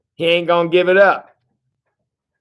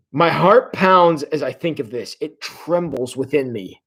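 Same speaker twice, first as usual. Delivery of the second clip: emotional reading. Shown as a demonstration. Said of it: "do you feel the emotion in that?".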